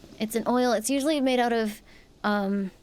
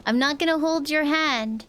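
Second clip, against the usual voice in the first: bossy note writer; 4 semitones higher, 4 dB louder, slower than usual. Retold or imitated. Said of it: "They were like".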